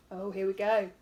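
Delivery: soft hushed aside; whispered aside. A narrator's reading. Teacher eagerly starting the wolf's story, whispering. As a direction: murmur it to yourself.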